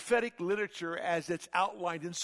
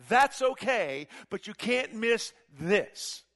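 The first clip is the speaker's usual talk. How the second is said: 1 urgent Gabriel; 2 semitones higher, 4 dB louder than usual. Acted. Gabriel urges Daniel, louder.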